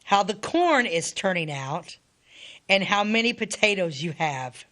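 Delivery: deliberate reading, with pauses between sentences; letter reading. Acted. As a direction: read an old letter aloud phrase by phrase. Continues reading soldier's letter.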